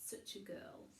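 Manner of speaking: hushed unvoiced whisper. A narrator's reading. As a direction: lean in and whisper the question. Narrator whispers aside to listener.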